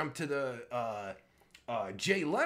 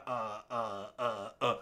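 usual speaking voice

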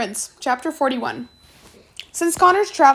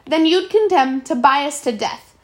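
truly angry; 3 semitones higher, 4 dB louder than usual. Acted. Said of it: "Truly angry now".

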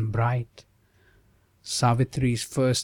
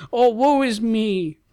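much higher, louder anguished cry; sage cries out; 10 semitones higher, 3 dB louder than usual. Acted. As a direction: cry out in alarm as the old sage. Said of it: "the Muni cried".

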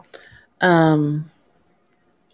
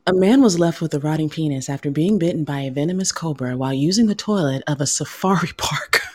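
reading it like a news anchor; lightly done newscast read; news reporter voice. Acted. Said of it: "Get my news reporter voice on here".

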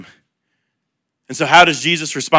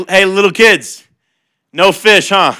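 teasing; 3 semitones higher than usual. Retold or imitated. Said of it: "he kinda messes with them".

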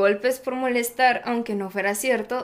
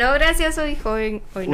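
tag; 4 semitones higher, 6 dB louder than usual. Acted. Acts out a refusal.

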